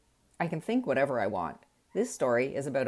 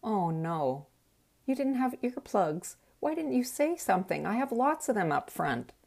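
husband voice; 7 semitones higher than usual. Retold or imitated. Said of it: "His answer surprised me".

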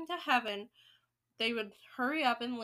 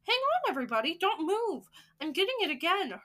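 higher, louder excited alarm; urgent cry; 6 semitones higher, 4 dB louder than usual. Acted. Witch catching the smell, crying out to all. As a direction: hold everyone still with an urgent cry. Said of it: "cried the witch called Mildred".

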